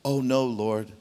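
low, slow mock pious voice; fake humble Peter. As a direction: act humble but don't mean it. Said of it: "because he wants to appear religious".

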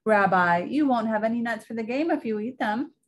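a hint of a sweet old grandmother; old Baba Brana. Baba Brana fusses over her guest's coat, lightly voiced old woman.

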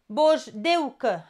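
"Boșdeucă" spelled out slowly, syllable by syllable; slow syllable split. Shown as a demonstration. Teacher shows students how "Boșdeucă" splits, slow and syllabified. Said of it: "Avem grijă la acest cuvânt".

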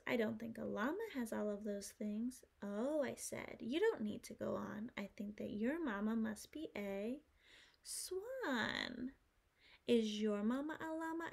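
lively rhyming storybook voice; reading to a toddler. Acted. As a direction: read with bouncy rhythm to kids. Reading rhyming picture book.

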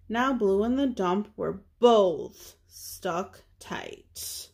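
lively, measured picture-book narration; reading to children. A narrator's reading. Reader telling children about a little truck, storybook narration. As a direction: read it aloud for little listeners.

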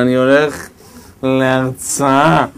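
put-on low, very drawn-out drunken voice; drunk man. Drunk answers the policeman who stopped him, low drunken drawl. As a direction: slur it slowly, like a man deep in drink. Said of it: "היה פעם איזה אחד שיכור כזה".

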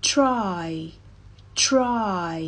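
crisp "try" with tr cluster and ai vowel; clear English try. Shown as a demonstration. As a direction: say "try" as one clean syllable. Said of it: "ออกเสียงสองคำนี้เหมือนกันเลยใช่ไหมคะ".

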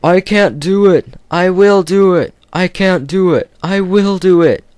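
high, loud alternating engine chant; puffing together. Acted. Gordon and Edward straining up the hill, alternating puffing chant. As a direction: chug the two engines in rhythm. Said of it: "they puffed together".

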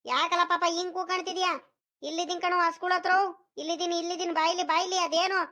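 calling back. Acted. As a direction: answer someone who is out of sight. Grandfather calls back from cattle shed.

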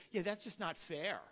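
soft, low mock grumbling; acted-out muttered protest; arguing, pleading your case. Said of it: "Arguing, trying to plead your case".

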